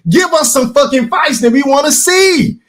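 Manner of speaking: high-pitched imitated demand; lightly imitated fan's plea; Stephen Brimley voice. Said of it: "in my Stephen Brimley voice".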